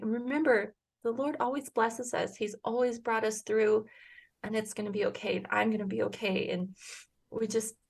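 soft, hushed motherly comfort; gentle retold words of faith; tender reassurance. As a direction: quietly reassure a frightened son. Mother reassuring her scared son.

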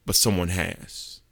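slow, low, soft revelation; hushed. Acted. Jesus kneels before the Father and answers, hushed. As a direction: let it land quietly and slowly.

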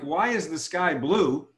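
"Why is the sky blue?" drawn out; slow question. Shown as a demonstration. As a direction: ask it slowly and deliberately. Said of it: "if I ask you a question like".

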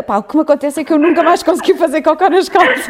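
lightly voiced, laughing mock confession; teasing mock quote. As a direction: tease her with a made-up line, laughing. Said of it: "achei que ias dizer". (a gozar, a imitar a amiga entre risos)

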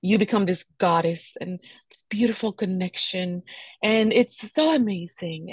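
breathy whispered gushing, slow; mocking the glowing goddess fantasy in a hushed gush; mock dreamy whisper. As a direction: whisper it like a dreamy cliché of pregnancy. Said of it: "it's painting this picture".

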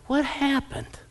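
high-pitched mock dismay; bewildered. Parent of a grown child looking back, mock bewilderment. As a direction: squeak it out as a baffled parent.

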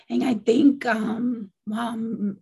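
real hoarse voice, losing it. Real, not acted. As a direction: voice giving out, going hoarse. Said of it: "I'm even losing my voice".

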